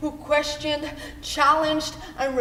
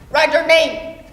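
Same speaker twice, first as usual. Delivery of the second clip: mother's voice; 7 dB louder than usual. Acted. Mother drilling child in reading.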